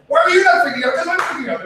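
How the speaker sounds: high, loud mock outburst; mock freak-out. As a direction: play the partner losing it, hammed up. Mimics angry partner in a fight.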